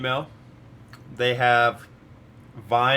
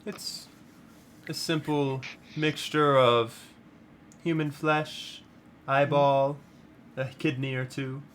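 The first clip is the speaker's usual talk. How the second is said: slow, relishing witch listing; sinister witch voice; 4 semitones higher, slower than usual. Acted. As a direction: savor each grisly ingredient. Dryad lists soup ingredients.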